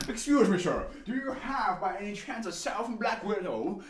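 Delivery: lightly voiced polite buyer; politely asking. A customer asking the black market dealer, mock-polite. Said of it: "just be like".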